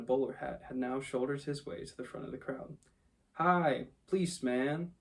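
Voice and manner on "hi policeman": higher, louder cabby's hail; calling out. A narrator's reading. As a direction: hail the policeman over the crowd. Red-faced cabby calling to policeman.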